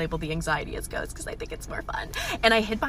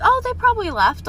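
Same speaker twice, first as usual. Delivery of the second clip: much higher, louder relieved thought; 13 semitones higher, 7 dB louder than usual. Retold or imitated. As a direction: brush it off, high and bright. Relieved inner thought retold.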